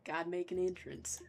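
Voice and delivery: put-on merchant line in a Southern accent. Merchant making an entrance, Southern accent. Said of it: "I'm gonna make him southern".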